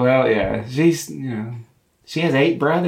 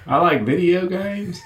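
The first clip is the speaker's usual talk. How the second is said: higher-pitched Southern twang; Southern accent; 3 semitones higher than usual. Shown as a demonstration. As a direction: put on a Southern accent, lifting at the end. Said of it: "I can do a Southern accent".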